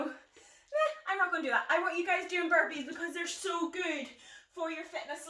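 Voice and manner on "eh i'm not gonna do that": reluctant. Retold or imitated. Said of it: "some people kinda just go".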